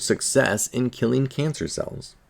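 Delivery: slow, sarcastic, the word success in ironic quotes; mock the so-called success; sarcastic scare quotes. Real, not acted. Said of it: "quote-unquote".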